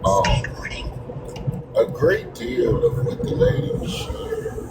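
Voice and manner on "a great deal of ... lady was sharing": muffled, distant in a tunnel; tunnel sound. Real, not acted. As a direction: voice echoing from far away. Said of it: "It sound like you in a tunnel".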